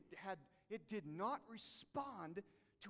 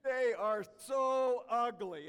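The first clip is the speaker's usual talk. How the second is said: mock disgust; 4 semitones higher, 12 dB louder, much slower than usual. Real, not acted. Exaggerated disgust at possums.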